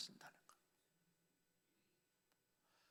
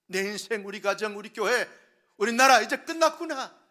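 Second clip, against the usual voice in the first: rising despair; 2 semitones higher, 13 dB louder than usual. Retold or imitated. Pastor voicing a frightened believer, despair building to a loud cry. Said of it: "두려움과 무서움과 공포에 떨게".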